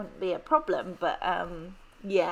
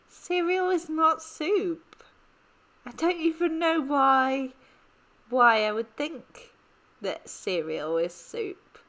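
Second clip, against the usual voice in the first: indignant; 5 semitones higher, 4 dB louder than usual. Real, not acted. Indignant denial of cereal soup.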